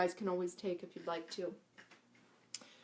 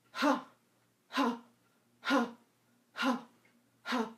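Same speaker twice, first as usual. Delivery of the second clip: forceful ha release; 3 semitones higher, slower than usual. Shown as a demonstration. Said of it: "thrust your hips forward while you do this".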